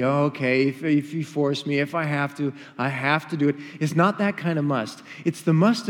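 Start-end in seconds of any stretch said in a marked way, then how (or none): 0.0-3.6 grudging, reluctant sigh of giving in; begrudging. Retold or imitated. Preacher voicing a reluctant guest, grudgingly. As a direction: say it like you're forced into it. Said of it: "the must of begrudging necessity".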